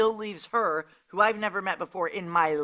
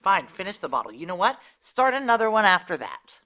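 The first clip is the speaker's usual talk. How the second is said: exasperated outburst; 2 semitones higher, 8 dB louder than usual. Acted. Giving in, exasperated.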